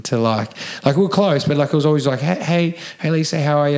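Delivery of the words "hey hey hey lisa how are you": overly nice greeting. Retold or imitated. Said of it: "I was really, really nice".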